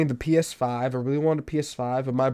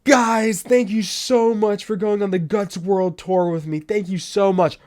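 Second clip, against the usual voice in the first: high, bubbly pop star thanks; a singer; 6 semitones higher, 3 dB louder than usual. Retold or imitated. Pop star thanking fans after her tour, high and bubbly. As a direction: gush like a grateful pop star. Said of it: "a singer's posting, like".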